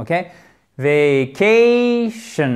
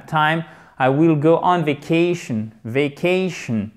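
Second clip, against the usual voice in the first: vacation stressed on ca, slow; slower than usual. Shown as a demonstration. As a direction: lean on ca before the shun in vacation. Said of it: "Accent tonique qui est sur".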